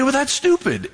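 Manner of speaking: high, sneering put-down; a touch of contempt; mock the belief; scoffing dismissal. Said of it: "You say".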